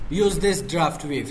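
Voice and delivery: reads the option very slowly, word by word; slow reading aloud; slow dictation. Real, not acted. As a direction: spell it out slowly for the class. Reads an English menu option.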